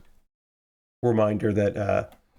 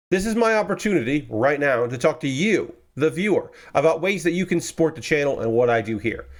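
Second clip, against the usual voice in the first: ad read; 2 semitones higher than usual. Acted. Support-the-channel pitch.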